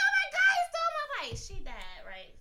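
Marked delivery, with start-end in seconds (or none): 0.0-1.3 high, loud mock scream; hammed-up childish wail, much higher and louder; retold screaming. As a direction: shriek it like a kid who just lost her bike. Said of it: "because I started screaming".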